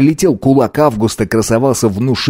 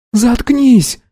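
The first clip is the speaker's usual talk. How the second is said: shout; 14 semitones higher than usual. A narrator's reading. Girl snaps nervously.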